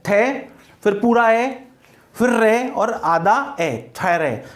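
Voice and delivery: थेरे taken apart as थे, पूरा ए, रे, आधा ए; syllable-by-syllable breakdown. Shown as a demonstration. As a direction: build थेरे slowly piece by piece, then say it whole. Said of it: "थोरो नहीं".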